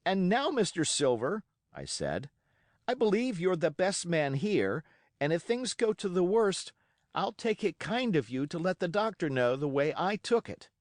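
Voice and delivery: excited again. A narrator's reading. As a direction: keep the fire but ask with dignity. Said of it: "I broke out again".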